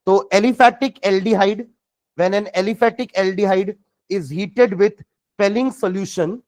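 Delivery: slow, drawn-out dictation voice. Shown as a demonstration. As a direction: spell it out slowly for note-taking. Dictating notes to students.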